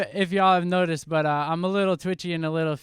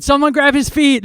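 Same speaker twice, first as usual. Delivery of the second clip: loud, higher barked order; boss yelling; 9 semitones higher, 11 dB louder than usual. Retold or imitated. Boss yelling at workers to grab his feet. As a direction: shout it across the job site. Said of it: "my boss yelled".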